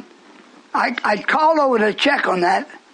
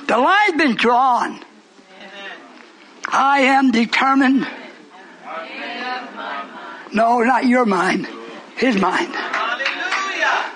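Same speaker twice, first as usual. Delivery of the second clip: slow; slower than usual. Real, not acted. Slow emphatic preaching.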